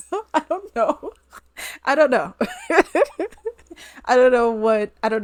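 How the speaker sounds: high, helpless laughing through words; real laughing. Real, not acted. Vlogger telling she got blocked, laughing helplessly. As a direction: crack up while getting the words out.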